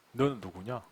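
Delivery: low, very soft question; God's inner voice. Acted. God questioning the praying pastor, low hushed voice. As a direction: ask it quietly from deep down. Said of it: "제게 질문을 하시죠".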